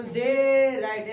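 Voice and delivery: mock broken chant, they and write split by a pause; they, pause, write, as the class chants it; imitating the students. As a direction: copy the class dragging they ... write apart. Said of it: "ऐसे बोल रहा है".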